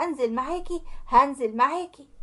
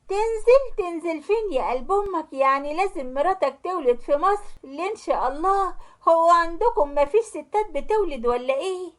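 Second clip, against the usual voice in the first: higher, sharp mock outrage from the mother; mother-in-law scoffing at her son's plan; 4 semitones higher than usual. Mother-in-law on speakerphone mocking son's news, high scoffing. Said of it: "وقالت له".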